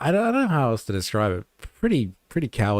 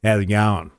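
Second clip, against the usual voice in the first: lightly voiced deadpan G'day, flat-faced and casual; a hint of a deadpan Australian mate; deadpan Aussie greeting; 3 semitones lower than usual. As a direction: greet like a local without a flicker.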